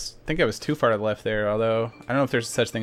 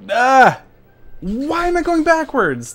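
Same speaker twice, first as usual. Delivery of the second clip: high, drawn-out cry of exasperation; frustrated wail; 12 semitones higher, 4 dB louder, much slower than usual. Real, not acted. Speedrunner suddenly going backwards, frustrated wail. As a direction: wail slowly at the game in despair.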